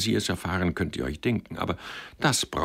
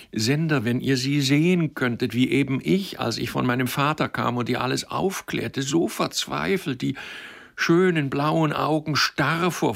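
high, urgent, distressed appeal; impassioned plea; 8 semitones higher than usual. A narrator's reading. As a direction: plead desperately for a friend, pitched high. Impassioned plea for desperate friend.

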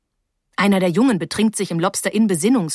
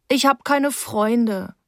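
slow, whiny complaint; whining; 4 semitones higher, much slower than usual. Acted. Sulky girl complaining to Paula, slow whine. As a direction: drag it out, self-pitying. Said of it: "jammerte ich".

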